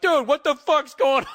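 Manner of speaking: loud, high-pitched incredulous yell; baffled outburst. Retold or imitated. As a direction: yell it in comic bewilderment.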